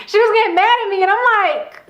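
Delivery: high, fast, laughing through the words; giggling as she remembers. Real, not acted. Laughing while telling it.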